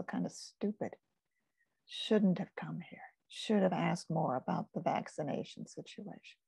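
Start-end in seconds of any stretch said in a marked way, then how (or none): 1.9-6.4 whispered inner thought. Retold or imitated. Recalling her scared thoughts.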